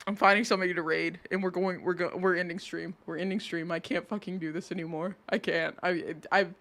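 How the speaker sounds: low, soft, worn-out mutter; real resigned low murmur; defeated giving up. Real, not acted. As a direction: drop low and quiet, done with it all. Gives up, wants to end stream.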